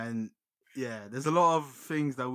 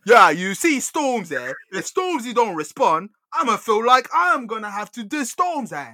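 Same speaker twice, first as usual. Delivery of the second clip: loud, raised-pitch mock challenge; impression of a rapper; 6 semitones higher, 7 dB louder than usual. Podcaster mimics a rapper threatening to diss another rapper, bad loud impression. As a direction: badly imitate a British MC, loud and insistent. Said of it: "The worst Wiley impression ever".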